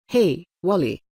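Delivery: mildly arrogant greeting. A narrator's reading. Boy lording it over the shopkeeper, understated arrogance. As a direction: greet him as if he were beneath you. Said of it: "he said it with such arrogance".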